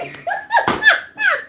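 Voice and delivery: shrieking laugh; high laugh. Real, not acted. Recalling the shock, shrieking laugh. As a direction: laugh in disbelief.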